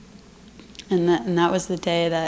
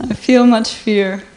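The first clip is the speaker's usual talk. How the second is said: much louder, voice lifted; asked to speak up, she says it louder; louder on request; 3 semitones higher, 8 dB louder than usual. Real, not acted. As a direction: speak up so the room hears. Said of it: "Little louder, darling".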